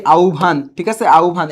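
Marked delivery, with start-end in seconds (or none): 0.1-0.7 আহ্বান said as "au-bhan"; pronunciation demo. Shown as a demonstration. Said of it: "আহ্বানের উচ্চারণ কি?". 1.1-1.5 আহ্বান said as "au-bhan"; pronunciation demo. Shown as a demonstration. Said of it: "এর উচ্চারণ কি?".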